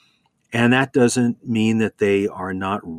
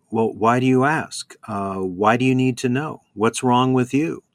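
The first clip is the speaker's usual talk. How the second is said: mildly defensive retort, slightly raised pitch; 3 semitones higher than usual. Retold or imitated. Interviewees dodging Matt's question about women, mildly mock-defensive. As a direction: imitate someone getting mildly defensive. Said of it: "they start to get defensive".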